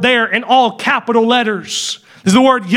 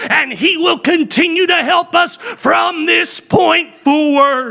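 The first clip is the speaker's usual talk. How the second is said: fervent preaching; 3 semitones higher than usual. Acted. Preacher tells the congregation God is personal help, fervent. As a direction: rise into full fervour, slowing on need.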